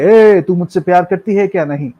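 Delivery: lightly hammed-up Hindi film line; acted love demand. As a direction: put on a bit of melodrama. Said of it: "এরম ভাবে যখন হয়ে যাচ্ছে". (হালকা নাটকীয় অভিনয়)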